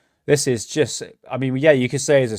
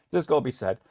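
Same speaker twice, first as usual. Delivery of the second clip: "That's gotta be said" repeated softer to himself; quiet repeat; 6 dB quieter, faster than usual. Shown as a demonstration. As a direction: murmur it as an echo.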